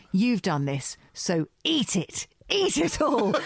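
building from a firm, slow order to a high, loud, slow command; retelling Alan's rage, rising to a high, loud push; mock furious order. Retelling Alan snapping at Fanny's voice, a mock furious order. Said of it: "He's like".

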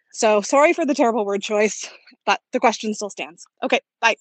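road noise behind the voice; by busy road. Real, not acted. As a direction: speak outdoors by traffic. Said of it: "terribly sorry about the road noise".

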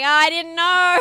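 high, loud, hammed-up surprise; mock surprise. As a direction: play dumb over the spoiler news. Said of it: "And I was like".

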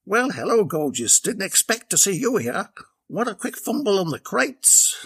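a hint of a cocky milkman; Benny. A narrator's reading. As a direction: lay on the charm. Benny flirting in story.

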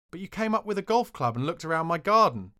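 betrayed friend confronting the prankster; indignant accusation. Retold or imitated. Alan angrily confronts the prankster.

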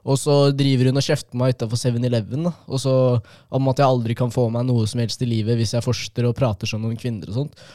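usual speaking voice

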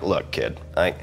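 a hint of a lecturing boss, low and soft; lightly voiced old-school supervisor giving advice; gruff radio supervisor. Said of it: "deep, dignified baritone voice".

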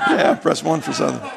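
chuckling through the punchline; laughing repeat. Real, not acted. Preacher repeating his friend's joke through laughter. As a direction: still laughing while saying it.

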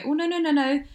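high, loud fluster of no's; mock horrified protest. Mum protesting to her son, high and flustered. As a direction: flap like a flustered old-fashioned mum. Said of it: "I go".

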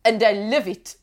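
badly faked German accent slipping into French; attempted German accent. Reading a listener's card in requested accent, attempted German accent. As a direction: have a failed go at a German accent. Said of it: "in a ridiculous German accent".

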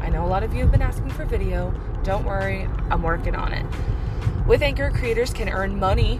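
upbeat sponsor read, selling it. Acted. Host reads sponsor ad to listeners, upbeat ad read. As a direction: pitch Anchor to the podcast listeners.

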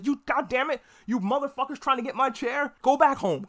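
mock furious king. King furious at Daemon's scheme.

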